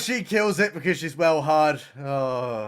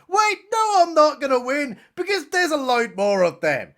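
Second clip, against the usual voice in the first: high, louder sudden panic; mock panic; 7 semitones higher, 3 dB louder than usual. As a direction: snap from gloating to dread. Character's panicked realization.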